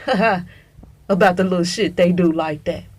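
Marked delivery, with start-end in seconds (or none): 0.0-0.5 mock laugh.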